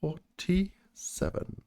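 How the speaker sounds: very slow, stretched bingo call; bingo caller. Pretend. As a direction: drag the number out, bingo-hall style. Echoing drawn number bingo-style.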